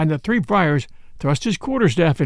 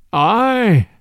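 mock sorrow; 3 semitones higher, 4 dB louder than usual. A narrator's reading. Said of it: "more sorrowfully than before".

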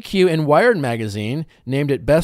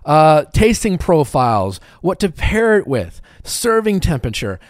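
pretentious wine snob; 3 semitones higher, 5 dB louder than usual. Pretend. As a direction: list it like a pompous wine expert. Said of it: "I sound like a sommelier".

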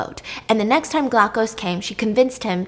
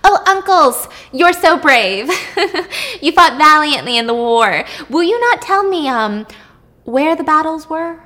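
higher, sweet, giggly fawning; mock innocent flattery; 4 semitones higher, 4 dB louder than usual. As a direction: play the naive niece to coax secrets. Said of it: "She smiled at them innocently".

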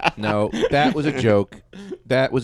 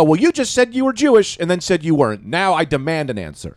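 high, exasperated challenge, slowing at the end; mock indignant; 6 semitones higher than usual. Retelling his confrontation with a party guest, mock indignant. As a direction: build a playful cross-examination to a demand.

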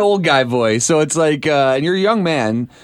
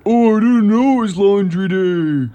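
mock wife; 5 semitones higher, slower than usual. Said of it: "how all wives impersonate".

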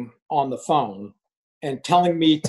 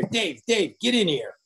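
imitating a boss's summons, pitch raised; boss calling out; 4 semitones higher than usual. Boss summoning Dave into his office, mock call.

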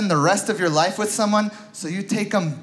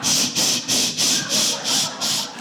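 shushing a horse; slower than usual. Acted. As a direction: hush it gently, like calming a horse. Hushing a spooked horse.

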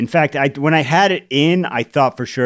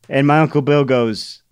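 ordinary talk

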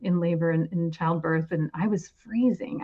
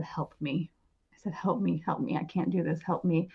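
pleading; 6 dB quieter than usual. Retold or imitated.

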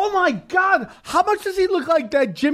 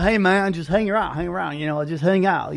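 put-on good old boy; 4 semitones lower than usual. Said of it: "like, this good old boy".

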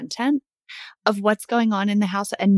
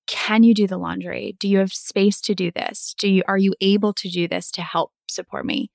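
considerate, unhurried asking for support; open request. Shown as a demonstration. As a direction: ask gently, leaving room to decline. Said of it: "listen to the smallest shift in this communication".

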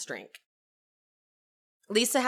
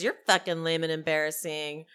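lightly acted retort, pitched lower; Angie; 5 semitones lower, 3 dB quieter than usual. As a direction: toss the insult back in a lower voice. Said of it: "Angie says".

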